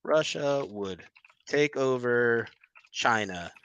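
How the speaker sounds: slow, drawn-out mocking quote. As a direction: drag each word out to ridicule him. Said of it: "You're getting so, you're getting so upset".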